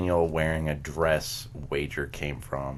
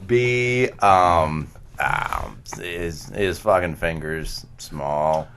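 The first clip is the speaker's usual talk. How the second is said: mock Adam; 3 dB louder, much slower than usual. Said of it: "my impersonation of if Adam".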